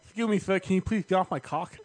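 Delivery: lightly voiced polite Mike Tyson; a faint Tyson put-on, near own voice; bad Mike Tyson impression. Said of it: "bad Mike Tyson impressions".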